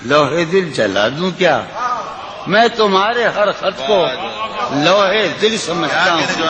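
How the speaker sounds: lilting, sung-through recitation of a ghazal; poetry recitation. Acted. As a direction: recite it like at a mushaira. Recites a nazm.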